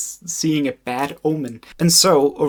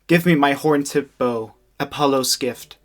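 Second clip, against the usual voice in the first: frantic Orestes. Acted. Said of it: "very out of breath for this next part".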